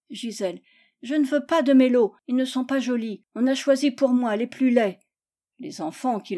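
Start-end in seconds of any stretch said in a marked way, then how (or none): 1.0-5.0 higher, lightly acted complaint; petulant child. Gisèle rejects her prizes, petulant.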